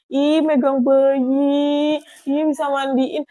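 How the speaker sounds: drawn-out, gleeful exclamation; proud delight. Retold or imitated. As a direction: relive a proud little thrill. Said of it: "Rasanya tuh di situ bangga".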